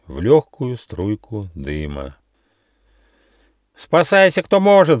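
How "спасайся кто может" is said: high loud panicked cry; panicked shout. A narrator's reading. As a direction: scream in panic and flee. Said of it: "закричал полулапчатый гусь".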